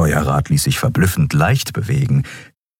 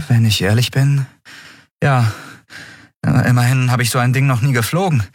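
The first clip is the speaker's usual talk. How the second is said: higher, hesitant character voice; higher-voiced, uneasy heroine; hesitant novice pilot; 6 semitones higher than usual. A narrator's reading. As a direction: admit it haltingly, then hurry the confession. Endriel admits inexperience.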